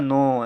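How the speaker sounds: "नो" with the vowel through the nose; nasalised vowel. Shown as a demonstration. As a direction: let the o of "नो" ring nasally. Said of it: "यानी कुछ नाक से हो रहा है". ("नो" नाक से बोला हुआ)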